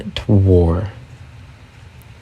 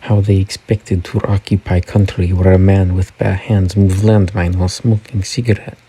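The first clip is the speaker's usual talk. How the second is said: put-on Russian accent, deliberate reading; lightly hammed Russian accent. Shown as a demonstration. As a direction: read it as a Russian speaker would. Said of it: "read that in Russian accent. Sorry, I'll try again".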